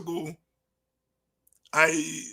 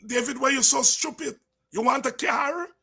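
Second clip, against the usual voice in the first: mocking scold; 3 semitones higher than usual. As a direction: taunt him like a scornful comrade. Party members mock him.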